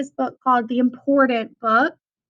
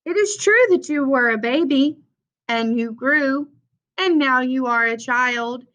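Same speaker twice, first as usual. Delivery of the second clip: picture-book read-aloud voice; reading to children. Acted. Teacher reading The Important Book to her class, storytime read-aloud. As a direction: read it like storytime for little kids, refrains lifted.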